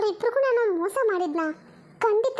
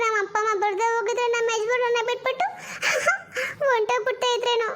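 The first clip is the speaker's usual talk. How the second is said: theatrical wailing. Acted. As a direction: wail it like a melodrama. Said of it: "ಬಡ್ಕೊಂತಿದ್ಯಾ". (ಅತಿರೇಕದ ಅಳುವಿನ ಗೋಳಾಟ)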